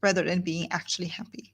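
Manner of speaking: soft, dropped voice; quiet contrast. Shown as a demonstration. Teacher contrasting seeming and being happy. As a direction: let it fall away softly. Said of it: "You see the difference?".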